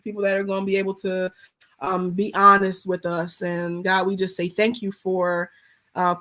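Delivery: earnest pastor's prayer; heartfelt closing prayer to God; spoken prayer. Acted. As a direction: pray over the listeners, sincere and steady.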